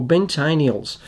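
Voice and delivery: Ben Taniels as "ben TAY-nee-uls"; another pronunciation attempt. Shown as a demonstration. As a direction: try Ben Taniels with a long first vowel. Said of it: "not sure how to say that".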